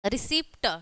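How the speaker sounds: रिसिप्ट said on its own with a hard final T; demonstrated pronunciation. Shown as a demonstration. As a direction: set रिसिप्ट apart, ending on a retroflex ट. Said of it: "तो इसका उच्चारण है".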